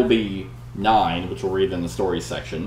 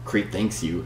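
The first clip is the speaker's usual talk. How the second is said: dry; 5 dB quieter than usual. Acted. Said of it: "says Pirithous dryly".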